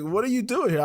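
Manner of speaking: high mock British question; bad British accent. Stranger asking a visitor his plans, bad British accent. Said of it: "I'm gonna do a bad British accent here".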